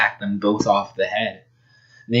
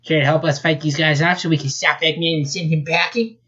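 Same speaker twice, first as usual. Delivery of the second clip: cocky hero; 5 semitones higher than usual. Acted. Sonic voiced.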